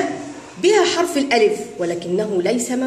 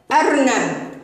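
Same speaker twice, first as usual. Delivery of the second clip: slow blended reading; slower than usual. Shown as a demonstration. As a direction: read the word slowly, stretched. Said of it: "هيا نقرأ هذه الكلمة". (قراءة أرنب ببطء)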